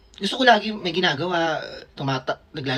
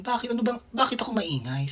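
soft groggy question; 4 semitones higher, 7 dB quieter than usual. Retold or imitated.

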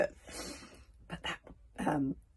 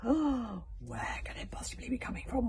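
wondering; 5 semitones higher than usual. Acted. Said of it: "wondered Stoic".

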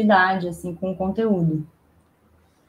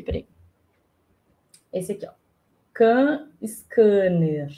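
far from mic; slower than usual. Real, not acted. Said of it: "Tô longe do microfone".

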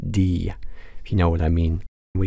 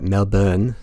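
slow, badly faked Australian pronunciation; hammed-up Aussie "Melbourne", drawn out with a lift; terrible Australian accent. Shown as a demonstration. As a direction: say "Melbourne" as MEL-bun, dropping the R in a bad Australian accent. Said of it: "That's my terrible Australian accent".

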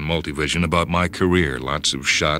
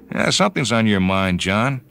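a hint of the higher friend voice; Cletus, lightly voiced; 5 semitones higher than usual. Friend noticing John is troubled, lightly higher. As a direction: gently probe what's wrong.

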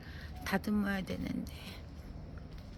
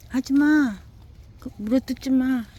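higher, loud stern shout; sharp command; 5 semitones higher, 10 dB louder than usual. Real, not acted. Owner shouting at her dog to stop biting, loud stern command. Stopping dog chewing plants.

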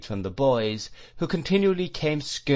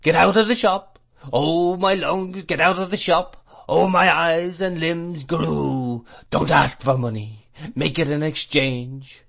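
put-on high, fierce old man's cry, exclamations stretched out; loud tuneful wailing; 6 semitones higher, 5 dB louder than usual. A narrator's reading. Mad shopkeeper ordering the boy out, loud wailing singsong. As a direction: drive the boy off in a droning yell. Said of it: "delivered in a sort of tune".

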